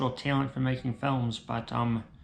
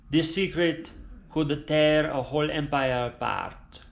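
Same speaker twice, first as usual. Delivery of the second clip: dying Italian father. Acted. Dying father telling son the family secret, grave and hushed.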